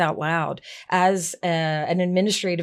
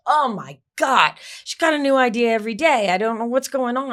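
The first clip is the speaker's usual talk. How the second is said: mock irritated grumble; 4 semitones higher than usual. Assistant reading email on a bad day, irritated.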